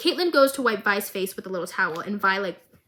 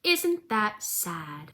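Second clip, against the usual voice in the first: creepy villain voice; 3 semitones higher than usual. Retold or imitated. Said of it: "looks at Marcus's daughter and goes".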